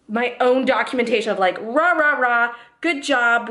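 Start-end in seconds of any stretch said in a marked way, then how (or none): 1.6-3.5 playful self-congratulation; mock cheer. Cheering herself for potty training, mock cheerleader.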